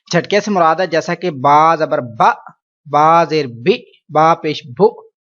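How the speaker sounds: با زبر با with each vowel jolted short; Urdu: جھٹکے سے پڑھنا; jerky vowels. Shown as a demonstration. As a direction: snap out با, بی, بو abruptly as a wrong example. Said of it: "ایسا نہیں کرنا".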